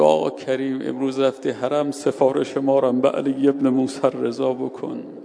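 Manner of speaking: loud appeal; calling out. Retold or imitated. Neighbours ask Karim for prayers at his door, loud call.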